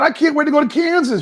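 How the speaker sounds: high put-on dog voice; voicing the dog. Owner pretending the dog talks about Kansas, high put-on voice.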